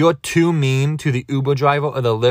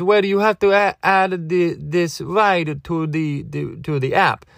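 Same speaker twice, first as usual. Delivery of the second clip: lightly voiced driver, starting higher; questioning driver; 5 semitones higher than usual. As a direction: imitate a driver fumbling through a request. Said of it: "And he goes".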